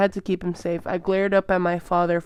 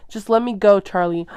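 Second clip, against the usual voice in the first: pushing away; 2 semitones higher, 7 dB louder than usual. Acted. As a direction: cut him off. Daughter pushing father away.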